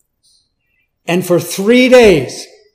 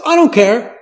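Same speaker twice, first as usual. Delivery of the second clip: rising, high and loud zealot quote; voicing a zealous Saul; 4 semitones higher, 5 dB louder than usual. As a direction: voice Saul's fervor. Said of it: "he says".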